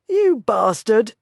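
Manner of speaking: a fighter roars his rage; roared. A narrator's reading. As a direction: bellow the curse. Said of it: "Duncan roared".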